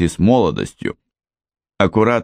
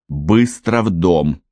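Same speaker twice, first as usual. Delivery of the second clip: slow, firm order; commanding; slower than usual. Acted. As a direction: order him inside at once. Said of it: "приказала она".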